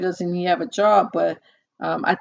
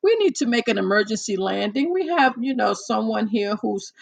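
calm pilot radio call. Retold or imitated. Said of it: "I'm just letting you know how he sounds".

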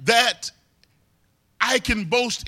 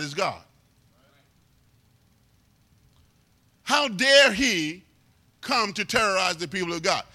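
indignant David. Retold or imitated. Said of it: "he could say it in this way".

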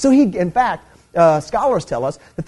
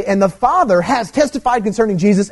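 raised pitch, punching FATHER; added emphasis; 4 semitones higher than usual. Shown as a demonstration. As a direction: say it as an exclamation, Father lifted high. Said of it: "I mean, just adding emphasis".

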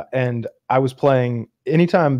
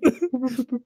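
high stuttering mock sob; shaky-chin blubbering; 12 semitones higher, 4 dB quieter than usual. Shown as a demonstration. Showing friends the crying style, high mock blubber. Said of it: "I get the shaky chin".

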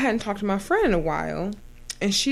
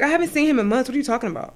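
indignant retort; 6 semitones higher, 4 dB louder, much faster than usual. Retold or imitated. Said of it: "I'm like".

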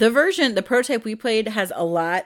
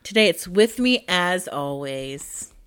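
loving; slower than usual. Shown as a demonstration. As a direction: say it like you adore him. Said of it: "It's lovingly today".

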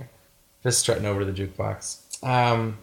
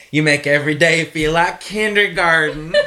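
louder, laughing "You make every day feel like kindergarten"; quoting through laughter; 6 semitones higher, 9 dB louder than usual. Retold or imitated. Host quotes Juliet's line while laughing. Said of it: "and she goes".

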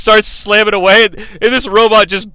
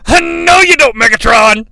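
higher, louder defiant shout; Hot Rod's yell; 5 semitones higher, 5 dB louder than usual. Retold or imitated. Hot Rod stops Megatron's hidden blaster, shouting. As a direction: yell to stop a sneak attack. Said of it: "It comes from Hot Rod".

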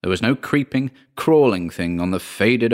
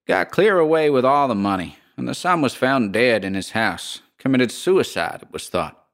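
lightly voiced gossiping American landlady; drawling landlady; 3 semitones higher than usual. Landlady tells the history.

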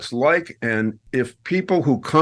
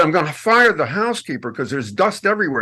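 imitating Maria; 4 semitones higher than usual. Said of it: "every time she said".

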